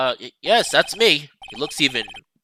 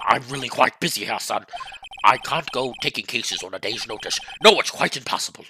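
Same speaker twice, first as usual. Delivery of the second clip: lower, self-important senior lawyer; pompous old lawyer; 4 semitones lower, 4 dB quieter than usual. Acted. Old lawyer sizing up the young visitor, lower and pompous. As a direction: look down on the young man.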